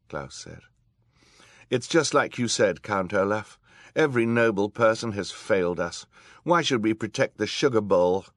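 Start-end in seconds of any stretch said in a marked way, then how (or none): 1.7-8.3 put-on higher, louder young voice; earnest boy. A narrator's reading. Klaus talking the villain round, raised earnest boy's voice. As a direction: argue firmly, pitch raised.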